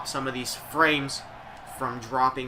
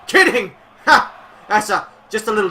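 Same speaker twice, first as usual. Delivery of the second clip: much higher, loud mocking kidding; spring the joke with a cackle; gleeful gotcha; 7 semitones higher, 10 dB louder than usual. Streamer springing a fake-retirement gag, loud and gleeful.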